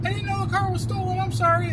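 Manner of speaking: sarcastic high-pitched fake apology; mocking whine. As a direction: mimic the suspect's pleading sorry.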